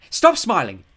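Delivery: high, loud bossy command; sharp order. A narrator's reading. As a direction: order him loudly. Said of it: "she ordered".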